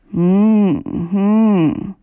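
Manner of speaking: drowsy hummed grunt, half asleep; sleepy murmur. A narrator's reading. Sleeping shepherd murmuring when nudged awake, drowsy. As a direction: mumble without waking up. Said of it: "murmelte Möndlein".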